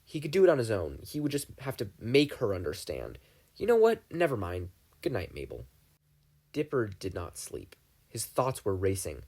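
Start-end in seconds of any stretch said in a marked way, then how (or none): 3.6-4.7 louder, higher sudden burst; exasperated outburst. Acted. Dipper fed up with his sister, louder and higher. 5.0-5.6 curt goodnight. Acted. Dipper ends the argument.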